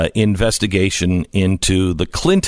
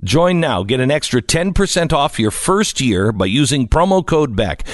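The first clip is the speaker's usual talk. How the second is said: lively, slightly raised sponsor read; radio ad read; 5 semitones higher than usual. Acted. Host urging listeners to join LifeLock, ad read. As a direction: sell it briskly to the listeners.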